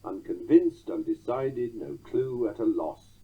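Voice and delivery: "unconvinced, undecided, no clue, at a loss" in four even beats; rhythmic titty-TUM reading of "unconvinced, undecided, no clue, at a loss"; anapestic rhythm. Shown as a demonstration. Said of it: "The rhythm comes through just as clearly".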